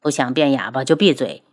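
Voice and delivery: cold warning. Acted. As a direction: shut him down icily. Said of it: "七绝冷着脸". (冷着脸低声警告)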